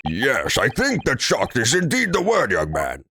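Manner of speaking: lightly voiced stuffy gentleman. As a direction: play the haughty old man. Voices a stuffy older character.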